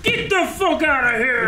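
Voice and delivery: very high, loud holler of disbelief; hammed-up high shout; surprised remark. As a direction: yell it out at full volume. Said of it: "surprise remarks in the background".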